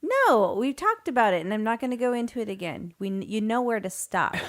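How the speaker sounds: loud, firm, fed-up denial; heated denial. Real, not acted. Pushing back at her teasing co-host, loud and fed up. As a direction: shut the topic down hard.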